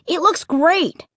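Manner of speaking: put-on high, drawn-out boyish plea; eager kid pleading slowly. A narrator's reading. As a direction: stretch it out to win them over. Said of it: "Luke pleaded".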